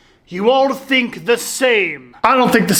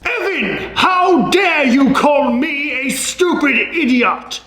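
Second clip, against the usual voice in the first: outraged. Acted. Teacher insulted by student.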